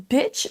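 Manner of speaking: bitch with a short lax i; mispronounced English beach. Shown as a demonstration. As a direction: say bitch with a short, clipped vowel. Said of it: "si vous faites un iku et que vous dites".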